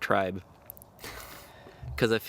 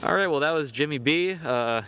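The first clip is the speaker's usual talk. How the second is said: raised, upbeat broadcast sign-off; mock sports reporter; 4 semitones higher than usual. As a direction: hand back to the studio like a ringside reporter. Mock sportscaster hands back after interview.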